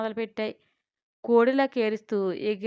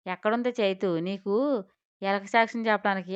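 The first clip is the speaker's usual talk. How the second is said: scolding; 3 dB louder than usual. Acted. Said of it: "గద్దించింది Suma".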